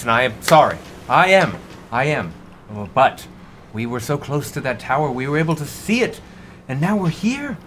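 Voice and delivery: high, halting captain pleading his case; earnest captain. Acted. Captain apologizing, then calling it fate, high and earnest.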